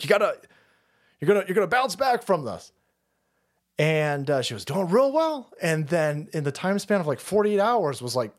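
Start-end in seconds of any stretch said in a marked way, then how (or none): 0.0-2.7 higher, hopeful encouragement; upbeat, pitched a little up; retold excitement. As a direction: retell cheering on the cat. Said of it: "all excited".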